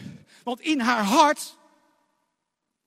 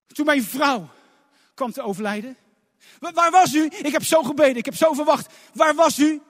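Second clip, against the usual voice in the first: aching reproach; 3 semitones higher than usual. Acted. Voicing a grieving believer.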